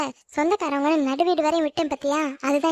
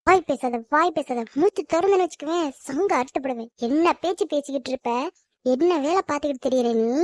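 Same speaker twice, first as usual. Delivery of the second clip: stern silencing. Acted. Mother silences daughter.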